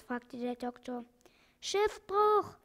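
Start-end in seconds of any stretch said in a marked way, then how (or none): 1.6-2.6 high, loud squawked cry; parrot screaming. Acted. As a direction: shriek it like a panicked parrot. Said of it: "schrie der Papagei". (hoher, lauter Papageienschrei)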